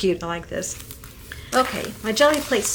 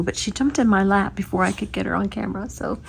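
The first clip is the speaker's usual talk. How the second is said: ordinary talk, nothing marked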